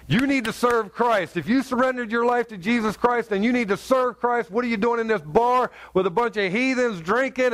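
urgent, preachy challenge, retold; retold confrontation. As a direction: reenact taking a friend to task. Confronting backslidden friend in bar.

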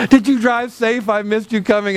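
put-on doting spouse; fake sweetness. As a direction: play the loving spouse for show.

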